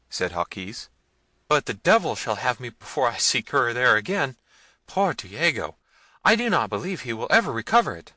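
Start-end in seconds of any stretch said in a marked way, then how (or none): 1.5-8.1 high, loud, emphatic refusal; agitated underling; frightened servant. A narrator's reading. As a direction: lament and refuse in alarm.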